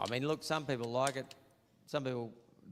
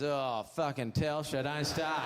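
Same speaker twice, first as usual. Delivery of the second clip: exasperated groan; 4 dB louder, slower than usual. Retold or imitated. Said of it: "someone goes".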